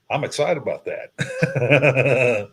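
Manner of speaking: slow, laughing through the words. Real, not acted. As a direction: chuckle it out slowly. Laughs about his birthday cruise.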